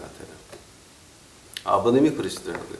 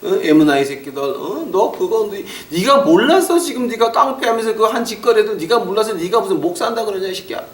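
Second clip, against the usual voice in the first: heated, much higher rebuke; retold angry scolding; 6 semitones higher than usual. Friend scolding the pastor about his past, heated.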